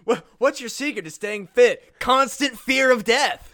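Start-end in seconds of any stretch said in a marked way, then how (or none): 2.0-3.5 put-on slow, higher, louder anxious old man; jittery old man. Old man tells a stranger his fitness secret, higher and louder. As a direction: spit it out like a wild-eyed maniac.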